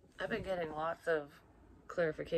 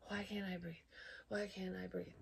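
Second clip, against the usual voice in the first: struggling to breathe; 3 semitones higher, 8 dB quieter than usual. Retold or imitated. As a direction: act out a small, scared gasp for air. Acts out being unable to breathe.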